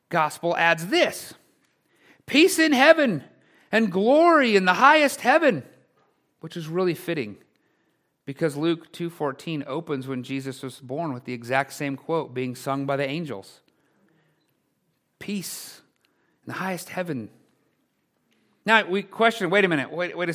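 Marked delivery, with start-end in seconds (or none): 2.2-5.6 proclaimed praise. Retold or imitated. Quoting the crowd's praise. 15.2-17.3 soft reverent repeat. Shown as a demonstration. Repeating the same quote softly.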